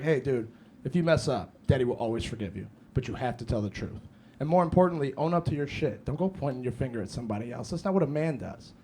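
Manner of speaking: low, soft, earnest dad talk; gentle fatherly advice. Retold or imitated. Dad teaches son accountability, retold gentle fatherly tone. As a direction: talk a child through a lesson gently.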